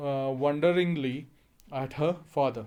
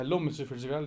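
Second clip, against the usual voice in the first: a touch of misery, quieter and flatter; miserably; 3 dB quieter, faster than usual. Shown as a demonstration. Doris greets the neighbour miserably, a little quieter and glum. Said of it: "लेकिन miserably".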